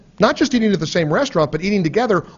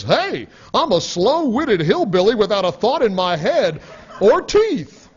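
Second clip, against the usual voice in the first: lightly voiced dim hillbilly, pitch jumping higher at the end; mock hillbilly; 4 semitones higher than usual. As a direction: ham up a slow-witted hillbilly then laugh. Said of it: "what a liberal brain actually hears is".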